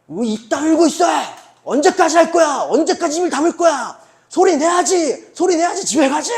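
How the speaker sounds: put-on high, full-force drill shouts at young players; harsh coach shouting. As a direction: bellow like a coach driving kids on. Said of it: "코치님들이 보니까 막 나긋나긋하지 않더라고요". (아이들을 다그치는 코치의 고함)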